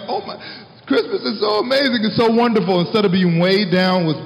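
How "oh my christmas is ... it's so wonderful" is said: put-on high, childlike gush of wonder; a higher, dreamy child's delight. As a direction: sound like an amazed kid at Christmas. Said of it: "we would be like".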